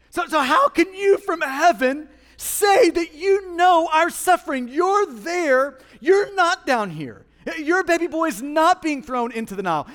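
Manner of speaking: loud, high protest hurled at God; indignant challenge. Acted. Someone in the room looking at God, indignantly challenging. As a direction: challenge God hard, stretching key words.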